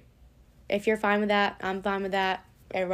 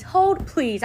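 "Hold, please." pitched higher, sharp and sassy, "Hold" stressed; 7 semitones higher, 4 dB louder than usual. Real, not acted. Vlogger telling the noisy neighbours to wait, higher and sassier. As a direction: escalate the "Hold, please" with irritation. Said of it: "I'm about to show my ass".

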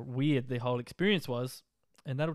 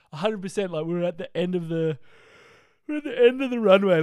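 rising excitement; 6 semitones higher, 10 dB louder than usual. Real, not acted. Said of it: "emphatic retelling".

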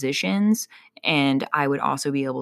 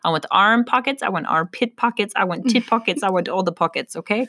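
excited demand; 4 semitones higher than usual. Pretend. Mock demanding pockets.

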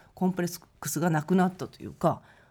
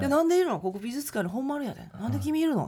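incredulous Kansai question; 6 semitones higher than usual. Retold or imitated. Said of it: "って言っ".

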